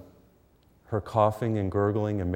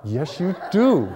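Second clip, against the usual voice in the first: higher, louder, slow and laughing; laughing insistence; 7 semitones higher, 5 dB louder, slower than usual. Retold or imitated. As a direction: insist through a laugh, half teasing. Son insists, retold quarrel.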